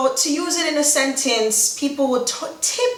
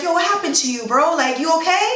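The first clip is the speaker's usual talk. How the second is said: higher-pitched, rising concern; concerned check-in; 5 semitones higher, faster than usual. Acted. Asking a sad-looking friend if he's okay, concerned. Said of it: "he look kinda sad".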